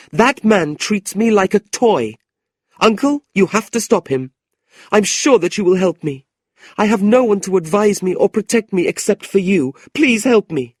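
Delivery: high, loud and earnest plea; pleading young woman. Acted. Niece begging her uncle for protection, high and urgent. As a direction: beg him for help, voice pitched high.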